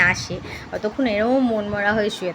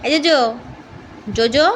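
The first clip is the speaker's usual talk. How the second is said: calling the dog; 4 dB louder than usual. Real, not acted. Calling her dog by name.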